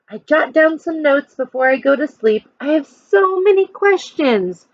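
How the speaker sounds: put-on reading a picture book to children; lively storytime voice for a class; expressive read-aloud for kids; story narration. A narrator's reading.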